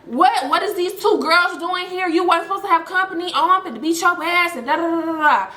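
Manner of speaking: quick, high mock telling-off; mock mom yelling. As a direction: scold him like a mom, only half yelling. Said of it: "She yelling at him like".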